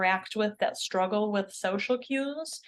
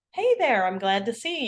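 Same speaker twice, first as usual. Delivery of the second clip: friendly greeting. Shown as a demonstration. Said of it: "Or how we would say".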